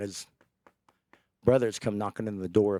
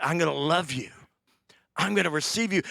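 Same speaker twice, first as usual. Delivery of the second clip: whispered tenderness; 5 semitones higher than usual. Acted. Joseph forgiving his brothers, whispered. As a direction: whisper it like a gift.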